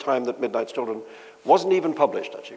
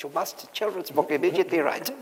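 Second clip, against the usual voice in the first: insistent mock German accent, leaning on immediately; heavy German accent; 4 semitones higher, 5 dB quieter than usual. German publisher insisting the writer start now, mock German accent. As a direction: push it in a light German accent. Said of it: "say in his heavy accent".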